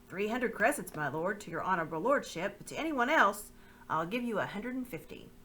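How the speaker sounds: oily, obsequious haggling; name the price with false respect; fawning slaver. Acted. Pug quoting the price to the lord, oily.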